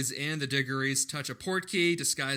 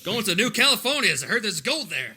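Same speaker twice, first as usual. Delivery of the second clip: put-on old prospector; 5 semitones higher than usual. Continuing the prospector bit.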